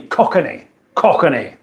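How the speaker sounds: "Cockney" stretched to cock-uh-nee; "Cockney" in three syllables, cock-uh-nee. Shown as a demonstration. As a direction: say "Cockney" with an extra middle vowel. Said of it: "syllables or with three?".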